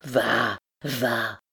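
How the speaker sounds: low, grudging grumble; grumbling. A narrator's reading. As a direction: grumble it dismissively. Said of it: "grommelait Gudule".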